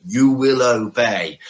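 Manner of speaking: imitating a Bond-villain German accent; mock German accent. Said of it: "putting on the accent of Klaus Schwab and going".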